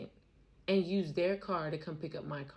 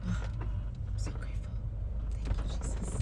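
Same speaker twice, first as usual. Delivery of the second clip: whispered thanks to Jesus. Real, not acted. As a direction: breathe the thanks like a private prayer. Whispered thanks after relief.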